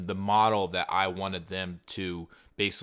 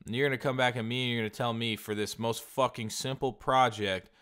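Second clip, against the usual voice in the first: higher, louder exasperated outburst; indignant rant; 4 semitones higher, 3 dB louder than usual. Retold or imitated. Buyer ranting at Fiverr seller over price, mock outrage. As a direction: blast him for the price hike.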